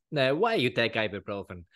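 lightly voiced Italian pharmacist; a hint of an Italian accent, questioning. Pharmacist quizzing him about ibuprofen, light Italian accent. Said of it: "this is my Italian accent".

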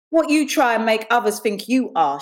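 mildly scornful comeback; skeptical. Acted. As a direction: throw the challenge back doubtfully. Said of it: "she answered skeptically".

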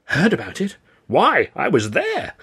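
high, drawn-out excited boast; thrilled youth. Acted. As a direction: burst out with starstruck pride. Thrilled youth boasts he was there.

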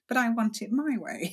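mock petulant, like a sulky child; a light whiny "but I want it"; petulant whine. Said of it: "the petulant sort of".

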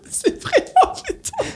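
high breathless laugh through the words; can't hold the laugh in; real laughter. Real, not acted. Laughing at his co-host's Monaco story, real laughter.

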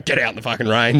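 fast, mock tough-coach order; mock hardcore coach. Joking about telling everybody to ride in the rain, fast mock-tough coach order. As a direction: rattle it off like a hardcore coach, tongue in cheek. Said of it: "sitting there going".

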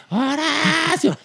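high, drawn-out mock call of the name; stretched high shout of Horacio; retold yell. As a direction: call Horacio slowly across the dressing rooms. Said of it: "no, me gritaba".

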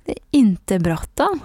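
slow Värmland drawl; Värmland accent. Shown as a demonstration. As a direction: draw it out like Karlstad. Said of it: "vi pratar mer så här i Karlstad". (långsam värmländska)

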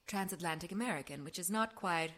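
transatlantic American with some rolled R's; nicely rounded vowels, not quite English, not quite American, transatlantic; transatlantic accent. Shown as a demonstration. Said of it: "that kind of accent".

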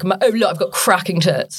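really low, lightly put-on voice; low speech out of half the mouth; Olivia Bentley. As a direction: drop the voice low for the impression. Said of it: "Uh, really low. Uh, speaks like that".

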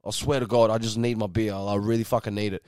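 low, sinking appeal of a tired punter; acted-out subdued plea; weary pleading, imitated. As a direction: plead softly, acting worn down. Patron pleads for a beer.

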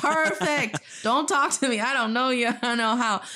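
high-pitched, delighted mock dismissal; acted-out joy at being left alone; gleeful relief. Acting out relief at being ignored.

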